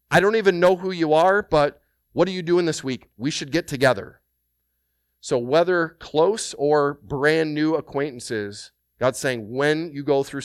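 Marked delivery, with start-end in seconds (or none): 0.1-4.2 eager welcome. Acted. Inviting a new acquaintance over.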